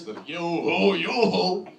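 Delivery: loud sing-out pirate call; mock pirate voice. Comic wondering if pirates mind that voice, mock pirate call. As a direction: imitate a storybook pirate's chant. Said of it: "offended by that voice".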